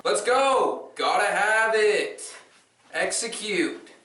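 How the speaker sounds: high, loud mock coach shouts; coach yelling. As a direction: bark at the batters like a third-base coach. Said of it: "Dono coaching third".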